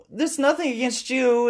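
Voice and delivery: high-pitched maid. Retold or imitated. Maids voiced in retold scene.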